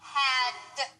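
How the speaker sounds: Had ending in a voiced d. Shown as a demonstration. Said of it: "change the T to a D".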